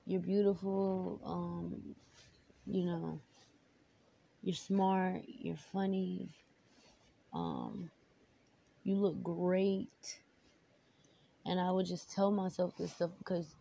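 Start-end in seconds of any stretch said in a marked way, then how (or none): 0.1-10.2 affirming. Retold or imitated. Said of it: "I will tell myself things like".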